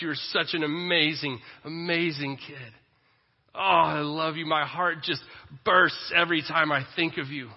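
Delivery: gushing with love, voice lifted on the big words; loud, heartfelt fatherly praise; loving father. Acted. Father pouring out love on his child, gushing. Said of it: "What's that voice that you hear".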